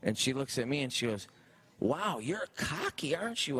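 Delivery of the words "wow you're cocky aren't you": higher, lightly voiced teasing woman; Drew mocking. Drew teasing the bartender, lightly voiced mock. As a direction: tease him for being cocky.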